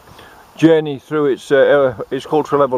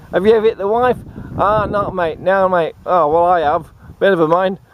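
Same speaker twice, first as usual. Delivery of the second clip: raised, casual broad Aussie; mock ocker banter; 3 semitones higher than usual. Mate asking about hitting the wife, mock broad Australian. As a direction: toss it off like pub chat. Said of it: "And I say".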